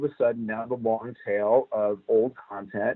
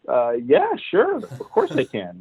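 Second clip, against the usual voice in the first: bright, higher, breezy yes, hiding doubt; breezy confident yes; 3 semitones higher, slower than usual. Retold or imitated. To his Sony bosses, a breezy overconfident yes. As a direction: toss off the yes like it's easy.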